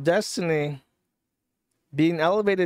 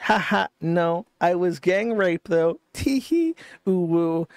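higher-pitched mocking giggly read-out; mock cutesy girl; 3 semitones higher than usual. Commentator reading out a girl's message reply, mock cutesy.

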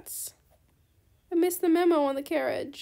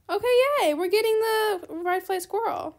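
high, louder happy squeal; delighted cheer; 5 semitones higher, 6 dB louder than usual. Real, not acted. Trade partner accepts the squirrel offer, delighted cheer. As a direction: celebrate the win out loud.

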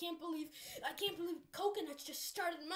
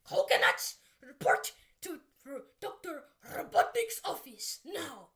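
loud barked summons; shouting an order; 10 dB louder than usual. Acted. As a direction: yell the command across. Summons Coconuts angrily.

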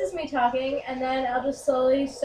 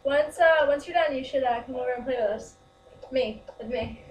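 put-on girl voice. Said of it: "my girl voice".

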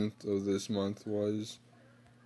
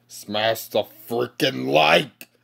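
pleading; 7 dB louder, slower than usual. Real, not acted. Begging viewers to hit like.

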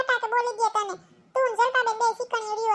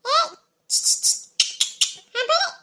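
higher, louder yell to the driver; 6 semitones higher, 5 dB louder than usual. Acted. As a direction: shout him down over the engine. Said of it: "કામ હોય એટલે જ બરાડા નાખું ને". (ડ્રાઇવરને ઊંચા અવાજે બૂમ)

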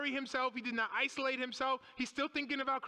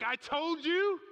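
mock told-you-so; 7 semitones higher, 6 dB louder, slower than usual. Voices the Lord's look at Peter.

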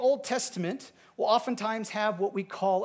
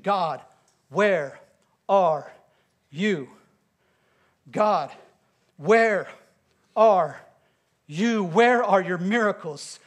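a preacher voicing a desperate plea; Gideon's lament; 4 dB louder than usual. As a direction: cry out each word with long pauses.

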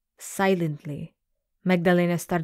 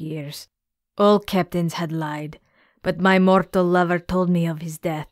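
a hint of a grieving, vengeful sea monster, building to threats; an angry mother-monster, barely acted; lightly voiced sea monster. Gorgona demands her daughter back.

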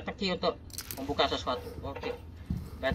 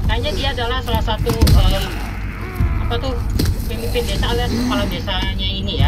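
loud tense boss fight commentary; excited shouting; 6 semitones higher, 9 dB louder than usual. Real, not acted. Boss fight, shots not working.

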